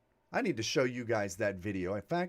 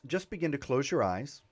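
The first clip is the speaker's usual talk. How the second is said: calm meditation voice with long pauses; guided meditation. Real, not acted. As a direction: ease them gently into breathing, leaving long silences. Leads a meditation.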